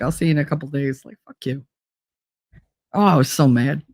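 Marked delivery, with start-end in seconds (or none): 0.0-1.0 dismissive brush-off. Retold or imitated. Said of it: "I'm like". 1.1-1.7 much softer muttered curse; under her breath. Retold or imitated.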